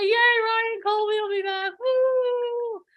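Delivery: bright crowd chant, ending in a whoop; excited cheer. Shown as a demonstration. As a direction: cheer it high and loud like a hype crowd. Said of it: "Everyone say".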